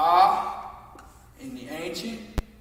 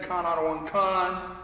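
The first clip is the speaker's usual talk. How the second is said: said fast. Shown as a demonstration. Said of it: "Say it real fast".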